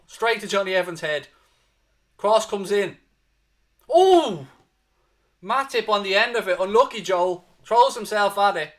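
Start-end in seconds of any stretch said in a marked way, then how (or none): 3.9-4.4 gasp. Real, not acted. Near miss on a header.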